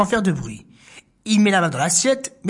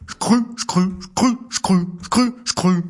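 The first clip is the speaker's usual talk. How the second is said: breathy crunching steps; heavier footsteps; much slower than usual. Acted. Narrator voicing the boar's steps, breathy. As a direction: boar trudging in snow. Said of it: "gros bruits de pas".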